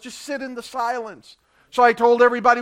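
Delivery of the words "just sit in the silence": soft, hushed inner voice; hushed divine prompt. Retold or imitated. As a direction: say it gently, like a quiet nudge from within. God's quiet inner instruction.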